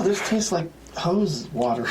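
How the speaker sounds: high, snooty customer voice; mock customer. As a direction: sniff and complain like a snob. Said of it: "People are just like".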